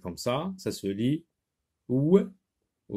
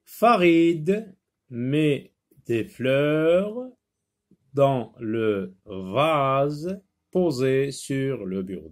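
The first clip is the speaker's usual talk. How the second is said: reading aloud; much slower than usual. Shown as a demonstration. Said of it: "voyons la rubrique je lis".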